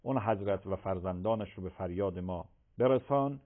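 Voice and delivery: prayer. Real, not acted. Leads closing supplication.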